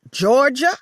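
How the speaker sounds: high, loud scream of her name. A narrator's reading. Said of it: "Lola screamed in my face".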